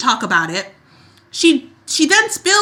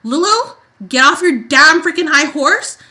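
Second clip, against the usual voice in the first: higher, louder scolding; exasperated rant; 3 semitones higher, 4 dB louder than usual. Real, not acted. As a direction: tell her off. Ranting at Lulu.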